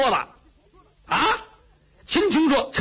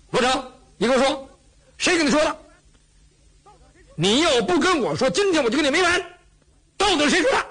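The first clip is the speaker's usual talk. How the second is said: pressing harder, pitch climbing higher; angry demand; 5 semitones higher than usual. Acted. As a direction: demand the name, getting angrier. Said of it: "秦琼也气坏了".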